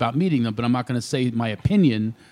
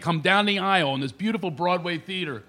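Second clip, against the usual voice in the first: normal talking voice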